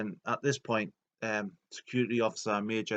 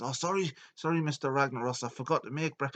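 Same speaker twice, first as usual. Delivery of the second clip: higher, flustered apology; confused underling; 5 semitones higher than usual. Retold or imitated. Domo forgot the boss's breakfast, flustered apology. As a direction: apologise in a lightly mocked servant voice. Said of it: "Domo's confused".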